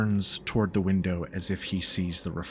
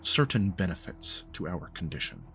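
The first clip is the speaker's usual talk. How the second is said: measured, deliberate elder speaking with grave restraint; lightly voiced formal patriarch; stern, formal patriarch. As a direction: pronounce it like a solemn, disappointed father. GM speaks as Ulysses.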